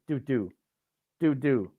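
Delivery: two light falling "doo" notes; bouncing sound. Retold or imitated. Flicking berries across the picnic table, playful bounce noise. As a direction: imitate a berry bouncing twice.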